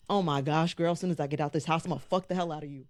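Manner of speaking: low, fast imitation loaded with innuendo; Rob's lustful subtext. Podcaster voicing a contestant's imagined thought, low lustful mutter. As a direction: start on the low growl, then rush through the unsaid part. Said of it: "tell you what was unsaid from that".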